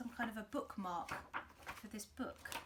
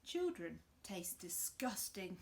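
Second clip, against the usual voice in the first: slow whispered crocodile; slow whispered disgust; slower than usual. Acted. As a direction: hiss it like a secret. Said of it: "said the crocodile".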